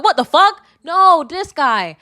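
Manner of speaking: high, loud startled outburst; mock shock. Friends shoving the man aside, mock-shocked high cry. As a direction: gasp it out in fake alarm. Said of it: "was like".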